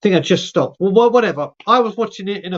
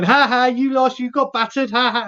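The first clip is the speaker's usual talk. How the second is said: higher, teasing ha-ha gloat; lightly acted taunting laugh; mocking laughter; 6 semitones higher than usual. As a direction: imitate a mate cackling that you lost. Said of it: "pissing himself with laughter, having a right joke at me".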